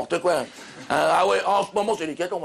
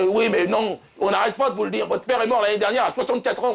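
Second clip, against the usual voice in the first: higher-pitched, mildly exasperated insistence; exasperated correction; 5 semitones higher than usual. Acted. Doctor correcting a confused patient, mildly exasperated. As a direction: insist as if repeating it for the umpteenth time.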